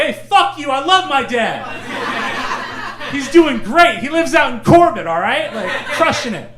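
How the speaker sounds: high, loud mock indignation; mock outraged defence. Son imagining defending his dad to her, mock outrage. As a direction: pretend to shout back, fiercely proud.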